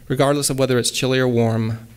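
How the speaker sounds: bouncy rhyming recital; light sing-song verse; poem reading. Acted. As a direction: read it with a galloping beat. Reads her own poem.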